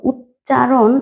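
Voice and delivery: "উচ্চারণ" slowly in parts, ut-cha-ron; sounded-out word. Shown as a demonstration. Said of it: "উচ্চারণের এই শব্দটারই, আহ, বানান লিখেছি".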